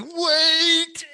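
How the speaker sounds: a high, loud, desperate cry; panicked yell. Retold or imitated. Brett yells after the kids walking out, a high panicked shout. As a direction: shout it to stop a crowd from leaving.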